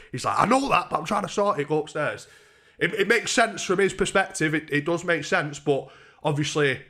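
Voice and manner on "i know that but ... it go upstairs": higher, exasperated retold order; acted insistence. Friend trying to sort it, imitated insistent pleading. Friend arguing him upstairs.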